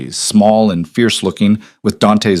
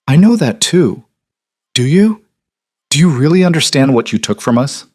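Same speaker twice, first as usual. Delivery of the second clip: rising anger; 5 semitones higher than usual. A narrator's reading. Mother confronting son over lost brother, angry and rising. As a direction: let her anger climb at her son. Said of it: "Her voice rose slightly".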